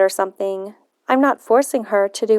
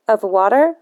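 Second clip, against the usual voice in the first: pointed sarcastic question, a bit louder; teen sassing a grumpy grandfather with sarcasm; emphatic sarcasm; 3 dB louder than usual. Acted. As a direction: throw the question back with heavy sarcasm. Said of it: "with as much emphatic sarcasm as I can manage".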